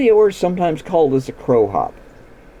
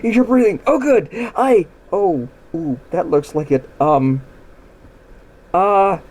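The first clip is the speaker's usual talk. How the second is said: relieved horse; 4 semitones higher than usual. Retold or imitated. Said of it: "the horse is like".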